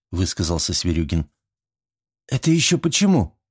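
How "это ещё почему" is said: combative. A narrator's reading. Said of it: "воинственно поинтересовалась Верещагина".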